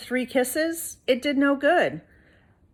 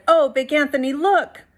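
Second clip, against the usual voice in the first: alarmed cry; 6 semitones higher, 7 dB louder than usual. A narrator's reading. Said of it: "his sister from the convent said".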